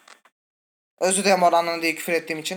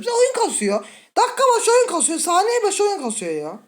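high, rising exasperated complaint; exasperated rant; 11 semitones higher than usual. Real, not acted. Gamer ranting at the lagging game, high exasperated complaint. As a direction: rant at the lag, pitch climbing.

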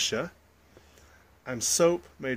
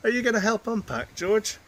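Grandpa; 8 semitones higher, 4 dB louder than usual. Acted. Grandpa calling to George.

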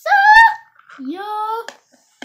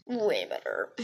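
much lower doll voice; deep voice; 12 semitones lower than usual. Pretend. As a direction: drop the voice way down. Doll voice agreeing, pitched down.

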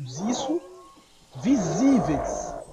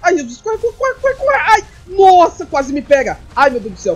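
real panicked screaming, much higher and louder; 7 semitones higher, 6 dB louder than usual. Real, not acted. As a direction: shriek in terror while fleeing. Dinosaur chase, player panics. (gritando em pânico, voz bem aguda)

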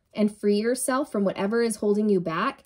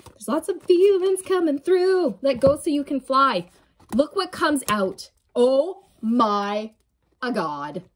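higher and louder, overwhelmed by feeling; emotional; 4 semitones higher, 4 dB louder than usual. Real, not acted. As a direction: ride the rush of emotion. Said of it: "I'm getting really emotional".

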